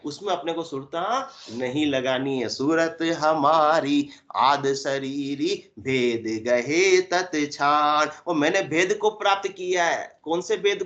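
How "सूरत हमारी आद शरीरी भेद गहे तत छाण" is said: very slow recitation with long held syllables; intoned verse. Acted. Preacher reciting scripture on true awareness, intoned verse. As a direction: draw out every word of the verse.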